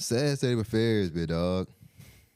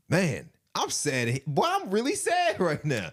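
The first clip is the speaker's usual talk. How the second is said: mock sadness; 7 semitones higher, slower than usual. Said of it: "that Joker was real like".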